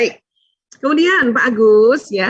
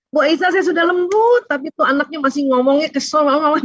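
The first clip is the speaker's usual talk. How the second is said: higher, whiny complaint of a frustrated parent; complaining parent; 5 semitones higher than usual. Retold or imitated. A frustrated parent complaining to Bu Aisyah, mildly whiny. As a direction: plead that you already tried being gentle.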